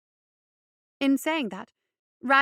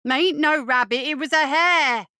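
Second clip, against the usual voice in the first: put-on louder, heated child's voice correcting; hot correction; 4 semitones higher, 8 dB louder than usual. Boyle correcting his doubting friend, heated. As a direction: set him straight, stung and hot. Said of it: "Boyle corrected hotly".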